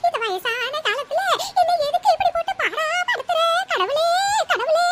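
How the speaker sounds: put-on old woman wailing up to God; hammed-up weeping plea; tearful wailing. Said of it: "அழுதுட்டு இருக்கீங்க".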